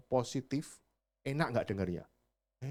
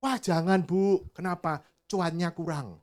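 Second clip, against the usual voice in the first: lightly voiced seller, a bit higher; honest seller; 4 semitones higher, slower than usual. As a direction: show the honest answer. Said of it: "saya nggak boleh ngomong rugi".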